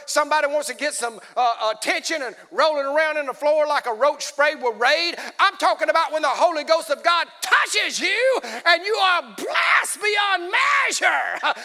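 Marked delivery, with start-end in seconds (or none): 5.4-11.5 rising into a full preaching shout, stretched slow at the end. Real, not acted. Preacher shouting to the congregation about being blessed. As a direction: let it build until you're shouting the blessing.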